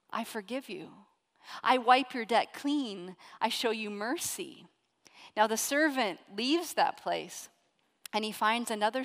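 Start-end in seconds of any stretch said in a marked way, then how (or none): 0.1-4.7 much softer, tender pardon; gentle forgiving king. Retold or imitated. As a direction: lay the words down softly, like a gift. King forgives the impossible debt.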